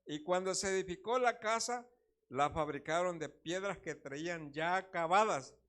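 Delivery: loud, deliberate Bible reading; scripture reading. Real, not acted. Preacher reading First Kings aloud, loud and deliberate. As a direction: proclaim the verse to the congregation. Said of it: "se lo voy a leer yo, dice".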